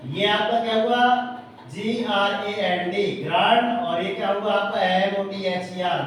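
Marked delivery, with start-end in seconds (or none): 1.7-3.0 slow, each letter of the word read out separately; teacher spelling it out for the class, slow and separate; spelled letter by letter. Shown as a demonstration. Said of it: "teacher spells the word letter by letter". 4.8-6.0 slow, each letter of the word read out separately; teacher spelling it out for the class, slow and separate; spelled letter by letter. Shown as a demonstration. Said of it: "teacher spells the word letter by letter".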